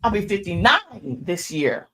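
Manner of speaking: loud squealing retold shout, half crying out; excited scream. She retells screaming her age back at the lady, loud and excited. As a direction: scream it in happy disbelief. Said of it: "Then I start screaming".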